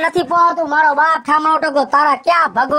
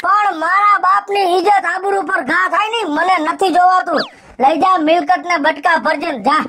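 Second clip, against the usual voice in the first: furious shouting; 3 semitones higher than usual. Acted. Husband ordering his wife out of the house, furious. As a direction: end with a sharp order.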